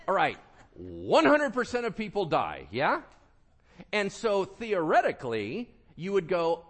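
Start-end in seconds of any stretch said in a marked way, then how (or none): none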